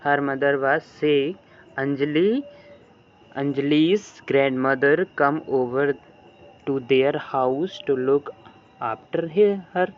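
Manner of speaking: very slow, word by word, like reading to a class; slow dictation reading. Shown as a demonstration. Teacher reading the English story line to her class slowly. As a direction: spell out each word slowly for students. Teacher reads textbook aloud.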